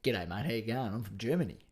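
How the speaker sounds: put-on quiet, lightly done Australian accent. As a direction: pass the German bit off in an Aussie accent. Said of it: "Brian Brown doing German".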